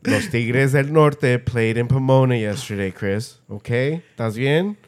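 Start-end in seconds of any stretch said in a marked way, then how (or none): 0.1-2.9 the band name said in full Spanish, rolled and crisp; spelling out the band name properly; careful Spanish name. Shown as a demonstration. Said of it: "Did I say it right?".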